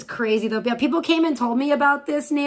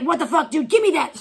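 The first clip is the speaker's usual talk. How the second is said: louder mock demand, pitch climbing; mock outrage; 4 semitones higher, 3 dB louder than usual. Streamer mocking the woman snatching the drugs, hammed-up demand. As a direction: imitate her grabbing greedily.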